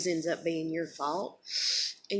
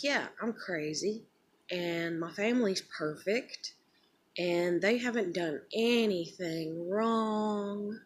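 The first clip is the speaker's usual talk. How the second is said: sarcastic; 2 semitones higher, slower than usual. Retold or imitated. Sarcastic scapegoat voice, slowed.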